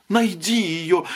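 breathless cry. A narrator's reading. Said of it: "задыхаясь, кричала жена".

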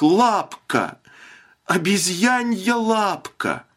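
high, drawn-out cry of sudden realisation; piercing cry. A narrator's reading. Wife cries out in the dark with a piercing call. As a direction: shout it out, struck by the idea.

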